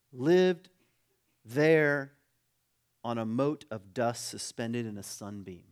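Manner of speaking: weighty phrases with long pauses; measured oratorical reading. Acted. Preacher closes a passage for the congregation, measured oratory. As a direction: build to two punched words, then ease down.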